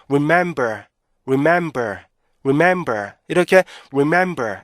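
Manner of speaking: "remember" with short "re", stretched "mem", falling end; measured rip-MEM-ber model; correct REMEMBER rhythm. Shown as a demonstration. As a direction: leave a beat after "mem" in "remember". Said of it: "이렇게 발음하셔야 되는데".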